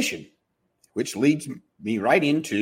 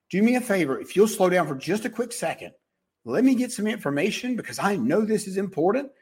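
a touch of soothing calm on the phone; calm empathetic receptionist; 3 semitones higher than usual. Acted. Receptionist calming a panicking caller, mildly soothing. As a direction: reassure the panicked caller gently. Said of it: "emotional intelligence".

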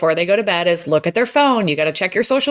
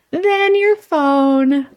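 laughing punchline; 5 semitones higher, 3 dB louder, much slower than usual. Real, not acted.

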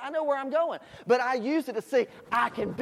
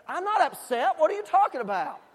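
higher, indignant denial; defensive denial; 5 semitones higher than usual. Retold or imitated. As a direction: insist you're not upset. Father denies being upset to son.

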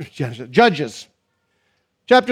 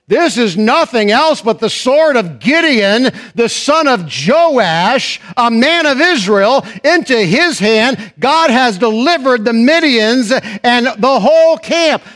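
solemn proclamation; 3 semitones higher, 3 dB louder, slower than usual. Acted. Companion interpreting, slow proclaiming.

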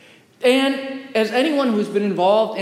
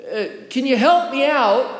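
raised pitch, mildly shouted plea; mock shout for help; 5 semitones higher than usual. Man in a hole calling up to a priest, mock shout. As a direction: call up to someone, voice lifted. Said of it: "looks up, shouts".

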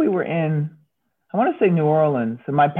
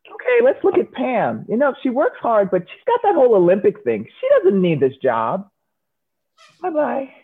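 imagined boss; 5 semitones higher than usual. Retold or imitated. Imagined boss deciding layoffs.

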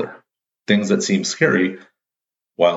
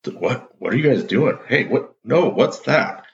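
pitched-up baffled questions, hammed-up; mock confused surprise; 7 semitones higher than usual. Friend seeing a shower FaceTime, mock baffled and high. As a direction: play the stunned friend, voice jumping up.

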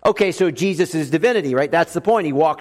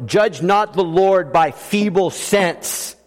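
slow hymn recital; slower than usual. Acted. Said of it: "going with the hymn writer".

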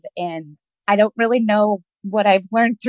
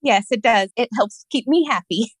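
smiling voice; 3 semitones higher than usual. Real, not acted. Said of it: "I can hear the smile in your voice".

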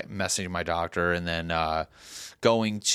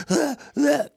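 high, loud mock "ah"; mock alarmed gasps; 5 dB louder than usual. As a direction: imitate people overreacting. Mimics people overreacting to news.

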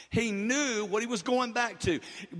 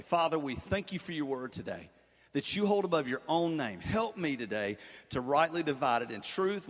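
lower-pitched, earnest pulpit prayer; public prayer; 6 semitones lower than usual. Real, not acted. Pastor asks God's help before preaching, lowered prayer voice. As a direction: pray aloud in a lowered, steady voice.

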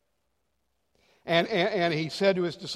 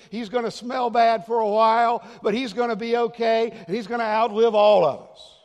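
higher, louder, almost shouting; preacher imagining himself as God, booming; loud confident declaration; 4 semitones higher, 7 dB louder than usual. Retold or imitated. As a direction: proclaim it like you'd announce the good news. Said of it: "say this with me".

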